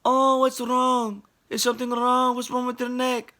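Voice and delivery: put-on Filipino grandma accent. Filipino grandma checking his neck, high Filipino accent. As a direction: fuss over him like a Filipino grandma. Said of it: "she's Filipino".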